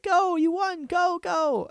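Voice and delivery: high-pitched squealing contestant impression; mock girlish cheering, very high; other contestants. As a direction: squeal it like an excited rival urging her on. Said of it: "all the other ones like".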